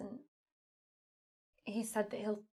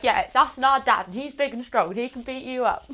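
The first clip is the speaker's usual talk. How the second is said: put-on boastful kid voice; 4 semitones higher, 15 dB louder than usual. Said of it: "I'm really like".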